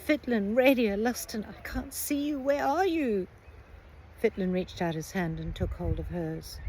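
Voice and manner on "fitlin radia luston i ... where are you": calling out high in near panic; panicked calling. A narrator's reading. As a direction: call for them in the dark, panicking. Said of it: "calling out in near panic".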